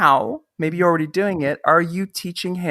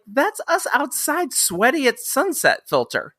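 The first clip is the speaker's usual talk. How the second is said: mock sarcastic retort; 7 semitones higher than usual. Sarcastic retort to people asking about the filter. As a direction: act out a sarcastic comeback to fans. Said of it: "I'm like".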